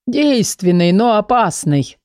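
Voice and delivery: slow, self-important rasp; important, husky. Acted. Gerhard answers Dilly, pompous and husky. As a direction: pronounce it gravely. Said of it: "важно ответил Герхард".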